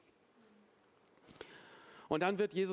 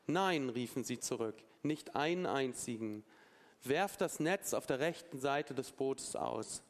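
scripture reading. A narrator's reading. Preacher reads the shore story to the congregation, measured scripture reading. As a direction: read it out clearly with dramatic spacing. Reads Bible passage aloud.

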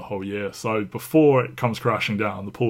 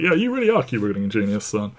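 dad voice; 5 dB louder, faster than usual. Retold or imitated. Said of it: "sounds a lot like his father".

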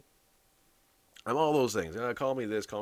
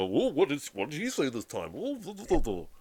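mock people reacting; 3 semitones higher than usual. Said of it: "they're gonna go".

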